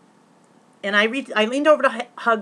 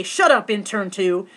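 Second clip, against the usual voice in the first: slow, louder, mildly mean chant; mock nasty voice; 5 dB louder, slower than usual. Host telling everyone to taunt the intern, mock nasty. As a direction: imitate a mean crowd prompt, drawn out. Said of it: "in your meanest, nastiest voice say".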